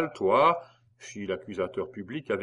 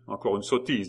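a scornful laugh before the words; disdainful laugh. Acted. Fouquier dismisses the patriot with a scornful laugh. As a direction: scoff at the foolishness. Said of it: "haussa les épaules avec dédain".

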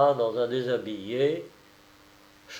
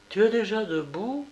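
higher, melodious waking question; harmonious voice; 9 semitones higher than usual. A narrator's reading. Wife just awake questioning her husband, in a harmonious voice. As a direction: ask it sweetly with a lifted ending. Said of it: "fit-elle de sa voix harmonieuse".

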